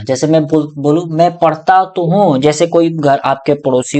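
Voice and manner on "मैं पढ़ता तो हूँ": "मैं पढ़ता तो हूँ" with weight pressed on तो हूँ, slowed; insistent, stressed तो हूँ; emphatic stress. Shown as a demonstration. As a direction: lean hard on तो हूँ. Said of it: "एम्फेथाइजेशन मतलब होता है जोर डाल के बोलना".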